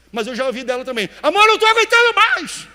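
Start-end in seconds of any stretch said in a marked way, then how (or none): 1.2-2.7 much higher and louder, a desperate near-scream; desperate cry. Shown as a demonstration. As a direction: cry out "Amor, eu não tô aguentando mais." at the breaking point. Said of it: "Mesma palavra, tons diferentes". (grito desesperado, bem mais agudo e alto)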